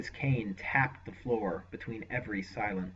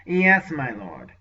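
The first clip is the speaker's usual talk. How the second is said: slow, unctuous assent; bow out with oily obedience; obedient servant; 3 semitones higher, 11 dB louder, slower than usual. Acted. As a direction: sorcerer obeying his lord, slow and unctuous. Sorcerer obeys.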